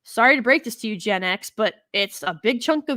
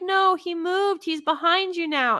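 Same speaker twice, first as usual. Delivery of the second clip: imitating excited kids; 7 semitones higher than usual. Kids correcting Dora on the TV, high mock child voice. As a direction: point it out like a kid who knows better. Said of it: "they'd be like".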